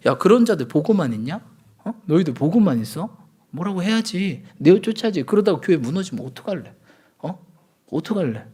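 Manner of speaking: mildly heated, imitated rebuke; indignant scolding. Apostle Paul scolding believers who just stand watching, indignant. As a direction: press them with pointed challenges, as an angered apostle. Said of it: "사도 바울도 막 뭐 화나서 그렇게 얘기하잖아".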